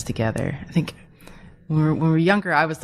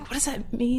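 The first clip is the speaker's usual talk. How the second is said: higher, softer baffled question; mock-puzzled, pitched up and quieter; retold bafflement; 9 semitones higher, 5 dB quieter than usual. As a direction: quote your own puzzled reaction, high and small. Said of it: "and I was like".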